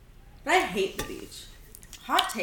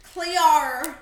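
put-on New Zealand accent; 5 semitones higher, 5 dB louder than usual. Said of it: "Rate my New Zealand accent".

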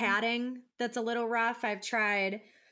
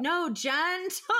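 put-on slow, soft "no, gentle" to a toddler; soft correction; 5 semitones higher, slower than usual. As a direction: ease the word out slowly like calming a child. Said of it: "And I'm like".

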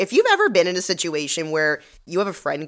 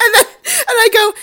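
laughing hard; 10 dB louder than usual. Real, not acted. Laughing through the story.

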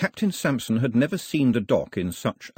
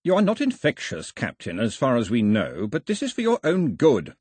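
megaphone shout; 2 semitones higher than usual. Acted. Agent shouts up to the captain through his megaphone. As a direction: call it through a tin megaphone. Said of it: "shouted the agent through his enormous megaphone".

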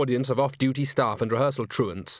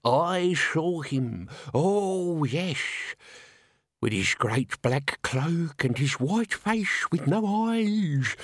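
put-on slow, higher, theatrical old voice; relishing a ghastly tale; ghoulish old man; 5 semitones higher, much slower than usual. A narrator's reading. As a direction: stretch it out to freeze every spine. Old man relishes dire information.

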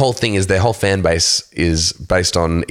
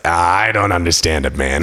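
Joe Rogan. Retold or imitated. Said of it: "He's like".

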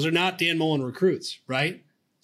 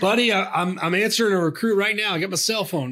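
put-on Southern accent; 4 semitones higher than usual. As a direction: coach brushing off the press in a lightly done Southern accent. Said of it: "that was a good Southern accent".

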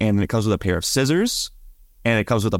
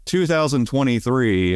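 put-on old man voice; 4 semitones higher, slower than usual. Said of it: "got, like, an old man voice".

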